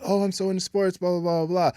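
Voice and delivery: high, breezy mock enthusiasm; mocking sports fan. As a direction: rattle it off like a bragging fan. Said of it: "somebody who's like".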